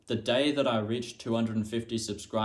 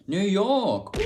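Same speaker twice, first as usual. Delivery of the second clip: surprised exclamation; 9 semitones higher, 6 dB louder than usual. Real, not acted. Reveal of the wrong answer.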